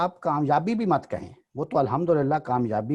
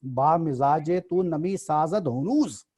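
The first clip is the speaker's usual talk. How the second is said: slow recited Persian verse; poem recitation; slower than usual. Shown as a demonstration. Teacher reciting the verse for the class, slow. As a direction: lift the line like a couplet. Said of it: "دوسرا مصرع کیا ہے".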